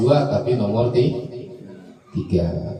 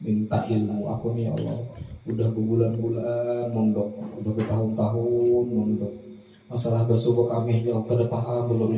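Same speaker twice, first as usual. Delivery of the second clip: whining student prayer; 4 dB quieter than usual. Retold or imitated. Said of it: "itu merengek-rengek dengan Allah".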